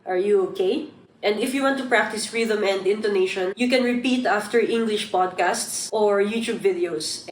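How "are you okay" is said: "okay" lifted at the end; questioning rise on "okay"; rising tone. Shown as a demonstration. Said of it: "You should use a rising tone".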